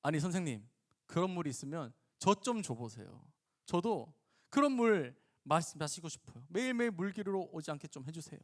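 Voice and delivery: mildly mocking plea; sarcastic request. Woman asks the teacher for that water, mildly sarcastic. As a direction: ask with a touch of sarcasm. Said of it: "비꼬면서 예수님한테 말해요".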